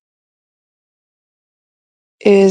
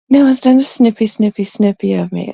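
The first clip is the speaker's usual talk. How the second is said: playful louder repeat; 3 semitones higher, 3 dB louder than usual. Real, not acted. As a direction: say it out loud and bright. Repeated aloud.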